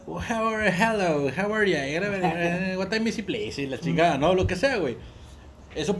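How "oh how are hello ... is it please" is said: stiff textbook English, drawn out slow; lightly mocking schoolbook small talk; mock English class dialogue. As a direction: parody a beginner's English class conversation. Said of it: "de la clase de inglés".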